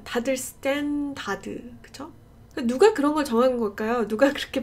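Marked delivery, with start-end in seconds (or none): 0.4-1.7 스탠다드 slow, each syllable open; drawn-out Korean 스탠다드, no r; Korean loanword standard. Retold or imitated. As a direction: imitate the common 스탠다드, full "da" sound. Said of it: "스탠다드라고 하잖아".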